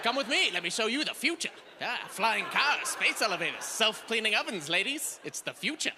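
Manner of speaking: lightly voiced newsreel host; hint of a fifties newsreel announcer; 1950s narrator. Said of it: "it sounds like a nineteen fifties newsreel".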